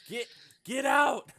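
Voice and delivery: high, loud warning shout; full-voiced, high-pitched shout of alarm; urgent yell. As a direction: yell at someone to flee. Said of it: "yell at you".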